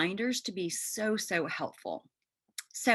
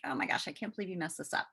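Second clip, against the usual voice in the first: mock self-scolding; 3 dB quieter, much faster than usual. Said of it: "I was like".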